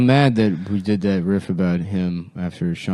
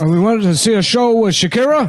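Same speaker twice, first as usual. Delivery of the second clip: put-on old showman voice; 10 semitones higher than usual. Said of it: "who do you think I'm doing?".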